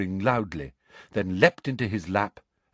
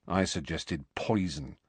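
grim; 3 semitones lower, 5 dB quieter than usual. Acted. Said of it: "said Ron grimly".

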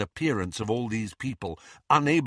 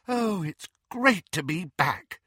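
high, slow, contented delight; happy; 8 semitones higher than usual. A narrator's reading. Luna back among her friends, happy. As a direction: savour it happily, slow and high. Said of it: "said Luna happily".

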